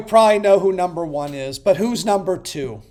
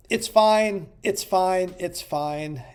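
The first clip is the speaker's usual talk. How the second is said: resigned fading; 4 dB quieter, slower than usual. Real, not acted. Repeated resigned "it's fine.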